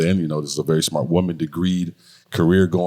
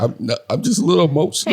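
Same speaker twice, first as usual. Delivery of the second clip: mock emotional Luke; 11 semitones higher, faster than usual. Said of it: "He's like".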